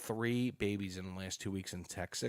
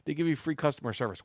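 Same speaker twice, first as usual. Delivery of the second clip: imitating friend; 8 semitones higher, 7 dB louder than usual. Jeff's advice, retold.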